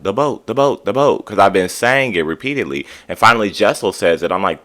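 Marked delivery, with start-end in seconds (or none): 0.0-1.2 urgent, repeated exclamation; excited repeated blurt. Retold or imitated. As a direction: blurt it out like shouting at the screen. Narrator blurting at the TV.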